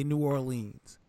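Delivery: New Orleans with long "leenz"; Northerners' pronunciation. Shown as a demonstration. Describing how Northerners say it, New Orleans with "leenz". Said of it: "most Northerners say".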